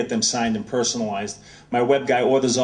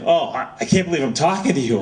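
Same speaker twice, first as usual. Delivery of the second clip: mock-gushing fan, raised pitch; starstruck gushing; 5 semitones higher, 3 dB louder than usual. Author to star pitcher on the phone, playfully starstruck. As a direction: imitate an awed fan, higher than usual. Both men gush back and forth.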